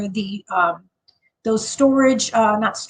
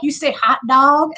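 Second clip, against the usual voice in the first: imitating people poking fun at "hot dog"; teasing disbelief; 2 semitones higher than usual. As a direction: question "hot dog" back, rising in mock disbelief. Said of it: "people would make fun".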